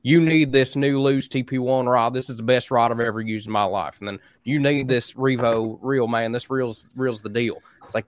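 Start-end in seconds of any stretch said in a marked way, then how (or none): 0.0-4.0 lightly hammed-up Cincinnati sponsor pitch; mocking Cincinnati accent. Pro angler selling the next rod, in a mocking Cincinnati accent. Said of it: "Cincinnati accent". 4.4-7.6 mocking Cincinnati accent. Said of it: "Cincinnati accent".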